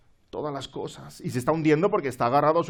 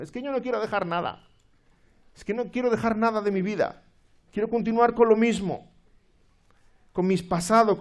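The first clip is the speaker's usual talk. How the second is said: stubborn sinner; 4 semitones higher, 4 dB louder than usual. Pretend. Stubborn sinner voiced by preacher.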